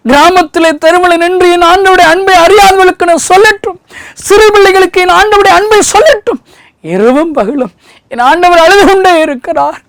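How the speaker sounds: fiery preaching. Acted. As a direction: preach it at the top of your voice. (உரத்த குரலில் உணர்ச்சிமிக்க பிரசங்கம்)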